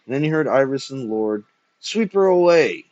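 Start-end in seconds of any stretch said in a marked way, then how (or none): 1.8-2.8 loud, high theatrical howl; raving old poet's cry. A narrator's reading. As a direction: howl the order from the deathbed. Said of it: "howled the sinking poet".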